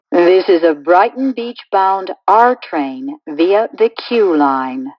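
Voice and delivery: recorded subway announcement stitched from clips; choppy prerecorded train announcement with pasted-in station names; spliced together words. Acted.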